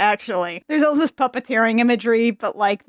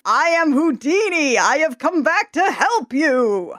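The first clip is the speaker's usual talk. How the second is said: deep voice; 4 semitones higher than usual. Retold or imitated. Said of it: "She just speaks in a deep voice".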